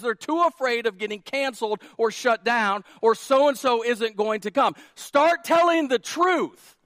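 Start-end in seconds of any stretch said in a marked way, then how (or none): 4.9-6.8 slow, high and loud; full-force preaching cry; rallying command. Real, not acted. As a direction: charge the church to act.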